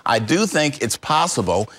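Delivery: slow, deliberate weight on "possible"; stress on possible. Real, not acted. Investigator cautioning viewers about a job link, stressing "possible". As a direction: spell out the caveat by leaning on "possible". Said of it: "I underline the word possible".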